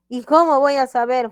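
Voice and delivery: high, loud pupil query; acted student question. Voices a student's puzzled question.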